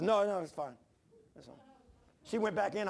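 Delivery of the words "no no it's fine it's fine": husband dismissing wife's worry; brushing it off. Retold or imitated. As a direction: cover up the accident. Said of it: "I said".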